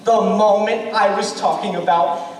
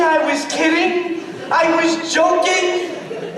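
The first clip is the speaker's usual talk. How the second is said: higher, slow, pleading mock protest; mock panicked backpedal; 5 semitones higher, slower than usual. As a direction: stretch it out like a groom panicking at the altar, half-yelled. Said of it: "Do you say".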